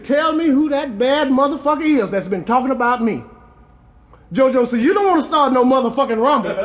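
rhythmic comic storytelling in verse; rhymed toast recitation. A narrator's reading. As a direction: recite it like a bawdy rhyming tale.

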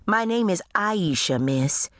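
a hint of a maid standing her ground; maid correcting her boss. A narrator's reading.

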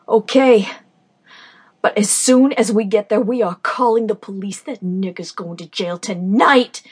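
loud furious shout. Acted. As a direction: yell it while driving fast. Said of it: "I shouted as I recklessly sped".

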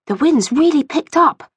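a hint of a young girl's voice; lightly voiced girl. A narrator's reading. Rachel comments on the wind to her friend, lightly girlish.

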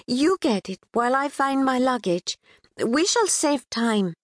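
put-on a touch of Pakistani accent. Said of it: "a bit sing-song, infused with a British twang".

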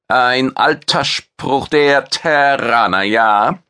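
lightly voiced proud chef with a rough edge; alien chef. Maitre the alien chef speaks.

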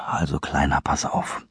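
weary sigh. Acted. Kyle sighs wearily at Christopher, almost whispering. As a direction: sigh it out, tired. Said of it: "Kyle seufzte abgrundtief".

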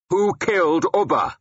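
high-pitched shouted demand. A narrator's reading. Warrior confronting his silent rival, shouting. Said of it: "I shouted at him".

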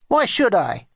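put-on cross, resistant child's retort. A narrator's reading. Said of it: "he said crossly".

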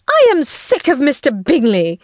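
high, fed-up outcry; exasperated cry. A narrator's reading. Wife cuts off talk of the neighbour, high exasperated cry. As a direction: cry out in vexation. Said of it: "cried his wife".

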